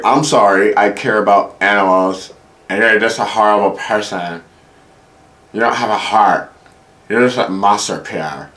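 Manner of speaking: exaggerated girlfriend impression, lightly voiced; put-on girlfriend voice. Girlfriend scolds him over animals, mock-hurt voice. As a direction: mimic her wounded scolding. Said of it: "she doesn't sound like that".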